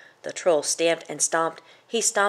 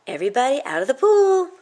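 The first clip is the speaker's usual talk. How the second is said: much higher, loud call; shouted order; 8 semitones higher, 7 dB louder, faster than usual. Acted. Goat yelling at everyone to leave the pool. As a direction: yell it across the water as a warning.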